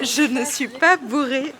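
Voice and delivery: slightly slurred tipsy insistence. Real, not acted. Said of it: "Elle est complètement bourrée".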